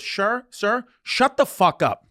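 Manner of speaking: imitating a fed-up attendant losing patience; retold snapping. Flight attendant finally snaps at yelling passenger, retold snapping. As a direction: draw out the rebuke, mock-stern.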